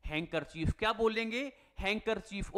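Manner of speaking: हैंकरचीफ said "hang-ker-chief", no d; silent d. Shown as a demonstration. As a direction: drop the d: हैंकरचीफ. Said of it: "जो ये डी है ना, ये silent है". (हैंकरचीफ बिना "ड" के उच्चारण)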